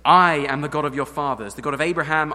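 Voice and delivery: loud proclamation of God's words; declaring loudly. Acted. Preacher proclaiming God's I statements, loud and emphatic. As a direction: proclaim it with full force.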